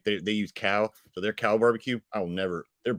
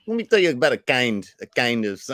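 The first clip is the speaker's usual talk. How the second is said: louder mock Midwestern accent; bent Midwestern vowels; 3 semitones higher, 4 dB louder than usual. Co-host demonstrating the bend, mock Midwestern accent. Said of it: "it's like a bend".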